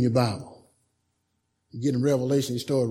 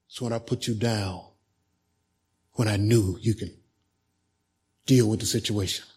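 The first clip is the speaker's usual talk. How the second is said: sweet whisper; 4 semitones lower than usual. Retold or imitated. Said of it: "in a sweet whisper".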